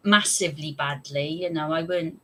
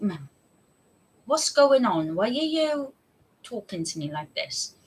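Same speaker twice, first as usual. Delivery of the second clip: baffled; 5 semitones higher than usual. Retold or imitated. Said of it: "I was like".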